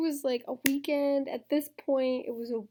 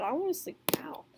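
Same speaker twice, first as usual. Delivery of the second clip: fast breathy whisper; 4 semitones higher, 4 dB quieter, faster than usual. Real, not acted. Vlogger telling viewers she wants sleep, whispered quickly. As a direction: whisper it like you're fading.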